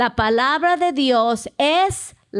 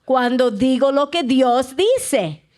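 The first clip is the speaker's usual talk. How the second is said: call and response. Shown as a demonstration. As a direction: lead the congregation, line for them to repeat. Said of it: "diga conmigo".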